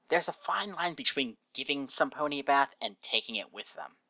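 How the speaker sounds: hint of a put-upon character voice; Rainbow's complaint.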